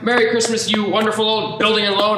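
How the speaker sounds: high, delighted calling out; elated Christmas shouts; joyful greetings. Acted. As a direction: greet every building gladly.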